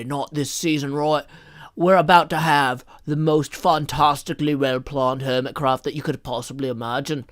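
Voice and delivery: playful fake New Zealand accent; lightly done New Zealand accent; mock New Zealand accent. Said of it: "my best New Zealand accent".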